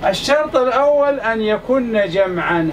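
slow, deliberate, stress on الأول; teacher slowly dictating the first condition to students; slow dictation. Shown as a demonstration. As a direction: spell out الشرط الأول أن يكن جمعا slowly, leaning on الأول. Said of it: "هذا الشرط الأول".

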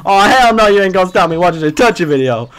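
high, loud indignant female impression; sassy ghetto woman. Woman telling her boyfriend she'll watch Touchy video, sassy indignant rant. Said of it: "like, ghetto black lady".

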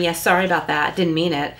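offhand insincere apology; mock apology with a sarcastic edge. Shown as a demonstration. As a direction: brush it off, not sorry at all. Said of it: "Well, that's sarcasm".

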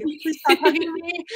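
high, slow, strained aside; retold uneasy plea. Asking the hugger to let go, high and slow. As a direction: squeeze out a polite plea.

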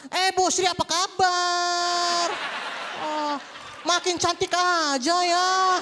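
drawn-out gushing hello, slow; showy greeting. Retold or imitated. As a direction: gush like a showing-off auntie. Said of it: "negornya pun beda".

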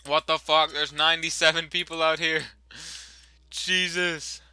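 taken aback, voice jumping up; real startled outburst. Real, not acted. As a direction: blurt it out loudly in disbelief. Startled by crowd of players.

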